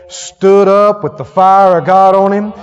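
loud, triumphant preacher's climax; preaching at full force. Real, not acted. Preacher proclaiming Peter's Pentecost, loud and triumphant. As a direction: build it up like fire.

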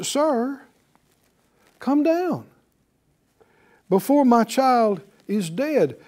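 high, pleading cry of a desperate father. Acted. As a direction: beg like a frightened father. Father pleading for dying son.

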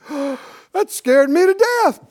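gasp, then a loud, high exclamation; hammed-up shock, stretched out loud and high; mock fright. Preacher mimics folks who'd say it, hammed-up fright. Acting out people shocked by own words.

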